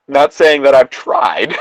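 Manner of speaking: loud, jokey denial; half-shouted mock defence; joking shout. Real, not acted. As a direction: blurt it out to cover yourself.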